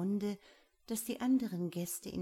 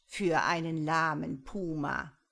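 louder sneering jab; scornful put-down; mocking; 2 semitones lower, 5 dB louder than usual. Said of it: "antwortete der Ketzer spöttisch". (spöttisch)

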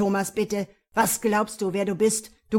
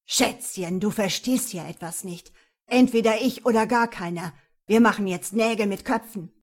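menacing; 6 dB louder than usual. Acted. Attacker threatens her.

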